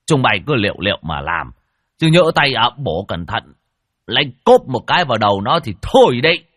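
loud, rising warning shout; booming voice. Acted. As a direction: boom the caution at the workers. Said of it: "giọng oang oang". (giọng oang oang)

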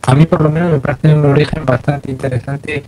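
glitchy robotic call audio; half robot voice. Real, not acted. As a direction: voice breaking up like a robot. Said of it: "Ahora se te ha puesto voz de robot".

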